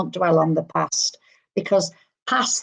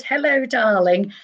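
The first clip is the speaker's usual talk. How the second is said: lightly camp, affectionate greeting; imitated camp 'darling'; camp gentleman; 3 semitones higher than usual. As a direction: put on a flamboyant gentleman's hello. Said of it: "I want to say camp".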